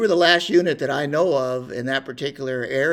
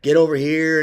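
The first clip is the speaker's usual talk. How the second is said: mock barked order, louder; retold drill yell; 2 semitones higher, 6 dB louder than usual. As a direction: shout it like a drill sergeant. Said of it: "yelling and cussing and screaming at us".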